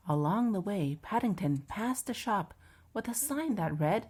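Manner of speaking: measured, lively picture-book narration; children's story reading. A narrator's reading.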